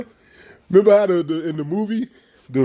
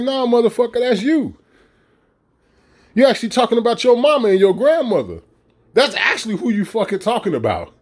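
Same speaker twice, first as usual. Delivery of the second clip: mock retort; 5 semitones higher than usual. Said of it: "And it's like".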